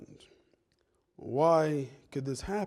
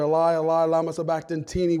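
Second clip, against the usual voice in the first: preacher's raised-voice quote; crying out; 5 dB louder than usual. Retold or imitated. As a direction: call it out loudly, as a cry from the cross. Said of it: "Jesus cries out there".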